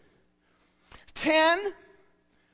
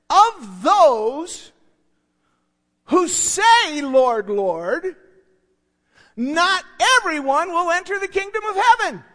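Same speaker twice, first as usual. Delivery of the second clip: rephrased verse; 5 semitones higher, 6 dB louder, slower than usual. Shown as a demonstration. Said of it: "we could say it like this".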